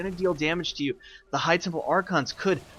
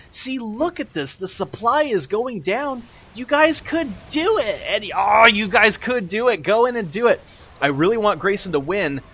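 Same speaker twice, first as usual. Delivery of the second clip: loud, high-pitched pleading with the players; impassioned urging; 6 semitones higher, 5 dB louder than usual. Real, not acted. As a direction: egg them on, voice shooting up in frustration. Commentator urging players to attack.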